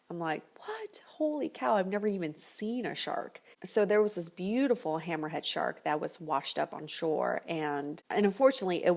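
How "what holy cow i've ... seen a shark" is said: hushed startled gasp; shocked whisper. Retold or imitated. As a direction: breathe it out in disbelief. Shocked reaction to a shark.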